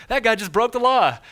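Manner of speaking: high, loud outraged gasp of a line; indignant shock. Retold or imitated. Driver at red light sees car roll through, outraged.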